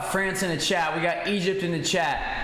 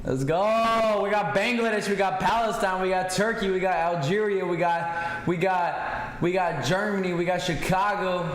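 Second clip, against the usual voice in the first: hyped shout-outs; 4 semitones higher than usual. Real, not acted. Streamer hyping up viewers by shouting out their countries. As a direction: rattle off the places with energy.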